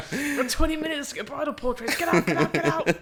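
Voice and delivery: loud comic drill-sergeant rush; mock urgent orders. Photographer hurrying a bridal party out, mock urgent. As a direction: bark it like a wedding is a combat mission.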